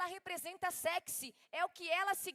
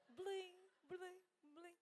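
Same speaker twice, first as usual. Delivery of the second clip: softer mimicked cowbell jingle, playful; cow bell jingle; 3 semitones higher, 16 dB quieter, much slower than usual. Preacher jokes about the Mimosa cow, soft cowbell jingle. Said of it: "Alguém lembra da vaquinha mimosa?".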